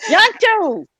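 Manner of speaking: Yontu called out high and loud. Shown as a demonstration. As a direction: try out the word Yontu.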